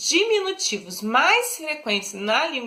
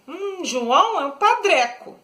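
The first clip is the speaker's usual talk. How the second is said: a scornful hum, then padreco said higher with sneering disdain; disdainful; 5 semitones higher than usual. Shown as a demonstration. Teacher mocking João to show a scornful diminutive. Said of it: "tô desdenhando, tô fazendo deboche".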